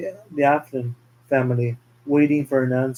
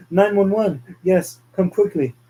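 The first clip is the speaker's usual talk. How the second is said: urgent emergency call; 5 semitones higher than usual. Acted. Henry calls emergency after death.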